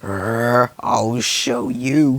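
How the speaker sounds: slow growled threat; angry growl. Acted. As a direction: grit it out through anger. Robin angry.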